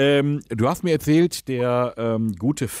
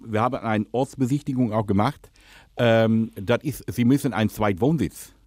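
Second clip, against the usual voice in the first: put-on Dutch accent, lisping. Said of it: "rede, lispeln und Holländisch".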